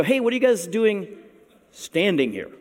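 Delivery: high casual opening, dropping on the last words; mock-puzzled needling; sarcastic angels. Angels show up to idle disciples, sarcastic. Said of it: "there's some sarcasm there".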